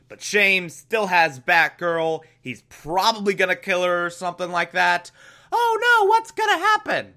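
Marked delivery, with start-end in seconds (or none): 5.5-7.1 high squeaky mock panic; mock alarm. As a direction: gasp it out in fake horror. Mock dread over Batgirl peril.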